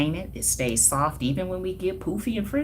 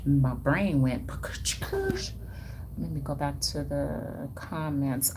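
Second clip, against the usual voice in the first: whisper; 5 dB quieter, much slower than usual. Real, not acted.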